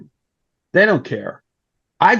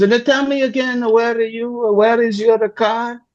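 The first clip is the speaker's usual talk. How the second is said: higher, light woman's voice; Italian woman voice; 7 semitones higher than usual. Retold or imitated. Italian woman asks where his car is, in a higher voice. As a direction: voice her lightly and airily. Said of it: "And she goes".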